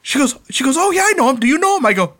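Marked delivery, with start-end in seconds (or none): 0.8-1.9 high-pitched, gushing imitation; retold excitement. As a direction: imitate an excited fan on the phone. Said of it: "she got all excited".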